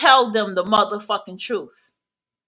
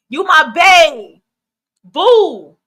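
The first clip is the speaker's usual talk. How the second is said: drawn-out, louder sugary mock of a stranger calling you bae; mocking overfamiliar flirt; 4 semitones higher, 7 dB louder, much slower than usual. Warning about strangers who give titles, mocking sugary voice. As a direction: stretch it out like a fake new friend sweet-talking. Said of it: "people who wanna title you so quick".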